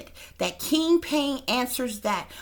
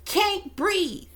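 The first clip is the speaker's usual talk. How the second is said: imitated weeping; 9 semitones higher than usual. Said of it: "she starts weeping".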